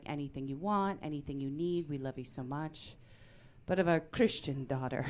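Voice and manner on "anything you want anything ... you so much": tender dad. Retold or imitated. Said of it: "He's like".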